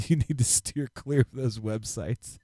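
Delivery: parroting a buddy's line through a laugh; laughing mimicry. Host teases co-host by repeating his warning, laughing. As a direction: tease it back while cracking up.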